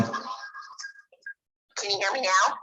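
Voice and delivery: slow, distorted phone-line voice; drawn out through a breaking-up call; bad connection. Real, not acted. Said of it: "I'm sorry for this bad connection".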